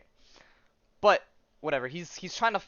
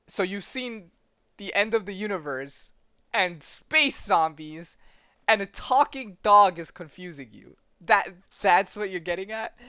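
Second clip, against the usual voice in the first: put-on higher, incredulous, lightly Russian-accented dog; louder, deliberate mock Russian accent; 5 semitones higher, 6 dB louder than usual. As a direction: recap it in disbelief with a slight Russian accent. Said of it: "it's in a Russian accent".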